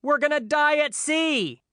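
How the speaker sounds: very high, slow whiny wail; melodramatic panic. Retold or imitated. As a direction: whine it like doom is certain. Whiny teen panicking dramatically.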